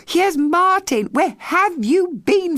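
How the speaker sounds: high, relieved call. A narrator's reading. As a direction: call out across the group. Someone calling out on finding boy.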